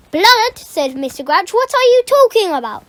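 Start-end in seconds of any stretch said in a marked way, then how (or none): 0.1-0.6 incredulous. Acted. Caretaker incredulous. 1.5-2.8 incredulous. Acted. Caretaker incredulous.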